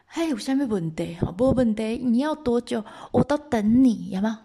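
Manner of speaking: mock male bravado; boastful husband. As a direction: promise readily, a touch cocky. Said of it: "男生都这样".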